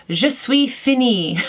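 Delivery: declaring with gusto. Retold or imitated. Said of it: "I declared after dinner".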